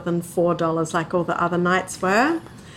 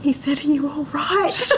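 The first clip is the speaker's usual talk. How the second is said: mock-casual retelling; 8 semitones higher than usual. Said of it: "It's like".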